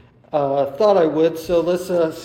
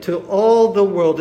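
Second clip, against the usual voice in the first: "all" hit loud and firm; stress on "all"; 6 dB louder than usual. Shown as a demonstration. Preacher drills the congregation on the gospel's reach, stressing "all". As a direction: punch "all" in "all the world". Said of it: "again, the emphasis".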